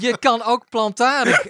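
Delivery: giggling through it; laughing. Real, not acted. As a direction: laugh while saying it.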